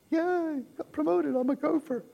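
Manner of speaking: sarcastic hurray over a lowly job; mock cheer. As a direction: fake celebration of a dull promotion.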